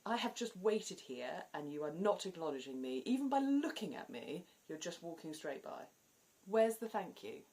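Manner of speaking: half-joking outraged rant; mock indignation. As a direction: huff at a rude passer-by. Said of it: "it would really make me angry".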